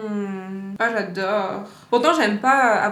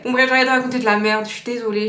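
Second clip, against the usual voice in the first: overexcited; 3 dB louder, faster than usual. Real, not acted. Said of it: "je suis surexcitée".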